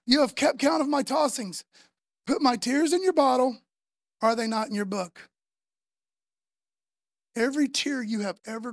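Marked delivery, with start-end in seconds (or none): 0.1-5.3 louder reading. Shown as a demonstration. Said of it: "Psalm fifty-six, verse eight".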